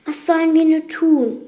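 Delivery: a touch of alarm; worried. A narrator's reading. Worried servant asks for help.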